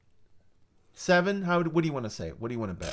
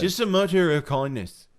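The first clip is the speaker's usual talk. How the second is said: higher, louder mock Liverpudlian; Liverpudlian accent; 6 semitones higher, 6 dB louder than usual. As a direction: put on a punchy Liverpool accent. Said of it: "that's Liverpudlian".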